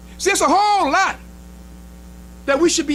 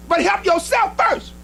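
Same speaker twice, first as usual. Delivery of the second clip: emphatic shout; 4 semitones higher, slower than usual. Retold or imitated. Preacher quotes the messenger forcefully.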